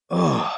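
soft pained grunt. Acted. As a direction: groan as you come to. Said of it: "Thomas grunts".

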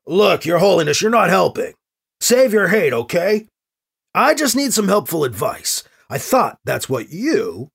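close to losing it. Acted. Harried governor to the cardinal, close to losing it. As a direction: rein in rising irritation. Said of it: "Edwards is close to losing it".

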